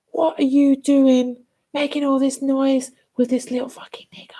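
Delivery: imitating a spiteful neighbour's hissed whisper; hostile neighbour whisper. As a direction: whisper it, venomous and sneaky. Hostile neighbour voiced in story.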